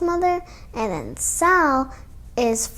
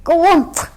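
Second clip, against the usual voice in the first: choking cry; 4 semitones higher, 5 dB louder than usual. Acted. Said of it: "she cried, choking on a mouthful".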